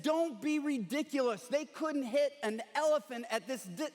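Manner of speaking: lightly acted dismissive rebuke; mild mock berating. General to flinching soldiers, mock berating. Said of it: "he berated his soldiers".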